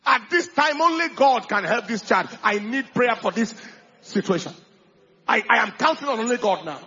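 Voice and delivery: firm, loud, hopeful appeal to God; a believing mother asking for prayer; faithful request. Shown as a demonstration. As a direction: show the better way to ask. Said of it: "It's far better".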